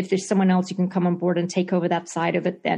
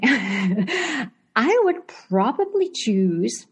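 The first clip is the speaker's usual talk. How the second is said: laughing; 4 semitones higher, slower than usual. Real, not acted. Laughs while answering the question.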